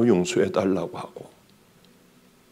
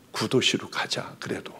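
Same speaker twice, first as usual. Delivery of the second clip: murmured under the breath, unvoiced and very soft; hushed muttering to oneself; whispered aside; 5 semitones lower, 12 dB quieter than usual. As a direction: barely breathe the words to yourself. Retells his own quiet thought.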